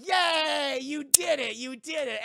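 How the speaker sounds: high, loud celebration that eases off; excited cheering. Retold or imitated. Doctor cheers patient's first words, excited. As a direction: shout praise like a proud coach.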